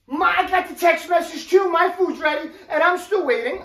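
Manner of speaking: indignant retort. Retold or imitated. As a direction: fire back like she's been wronged. Woman argues back at him.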